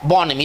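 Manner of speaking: बोनमी as "bon-uh-mee"; बोनमी carefully, closing on a long "ee"; model pronunciation. Shown as a demonstration. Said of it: "इसका उच्चारण करेंगे बोनमी".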